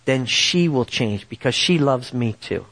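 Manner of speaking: slow, lightly voiced divine counsel; the Lord. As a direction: speak slowly, as if gently instructing. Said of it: "And he said".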